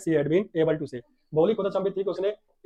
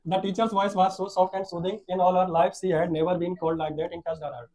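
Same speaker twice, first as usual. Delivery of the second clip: very slow English reading; read-aloud story; much slower than usual. A narrator's reading. Teacher reads how Bholi noticed the teacher, slow story reading. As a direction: read each word out deliberately.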